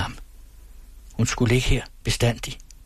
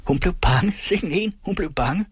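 mocking shout; 8 semitones higher than usual. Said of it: "råbte fru Syverts".

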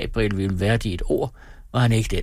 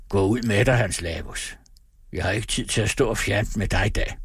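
tired calm voice. Acted. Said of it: "med træt og rolig stemme".

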